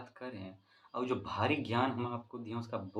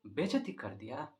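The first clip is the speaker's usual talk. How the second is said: building excitement; 4 semitones higher, 4 dB louder than usual. Retold or imitated. Retold punchline, pitch climbing.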